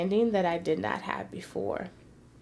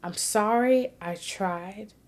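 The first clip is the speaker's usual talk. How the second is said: mild sorrowful apology; slower than usual. Retold or imitated. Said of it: "somewhat crying and saying".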